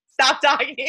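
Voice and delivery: playful mock voice of a worn-out throat; voice personified. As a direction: her tired voice begging her to stop. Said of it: "My voice is like".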